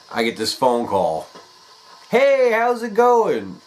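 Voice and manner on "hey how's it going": nervous. Retold or imitated. Phone call, nervous greeting.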